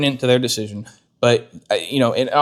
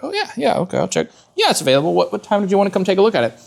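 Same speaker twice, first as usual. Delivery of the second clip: imitating dealer girl; 7 semitones higher, faster than usual. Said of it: "the girl's like".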